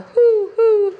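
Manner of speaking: owl hooting. Shown as a demonstration. Teacher hooting for the class. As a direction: hoot like an owl. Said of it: "He can go like an owl".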